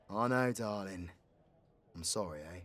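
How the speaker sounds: soft, low apology; tender consoling. Acted. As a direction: gently soothe a hurt darling. Consoling a hurt companion.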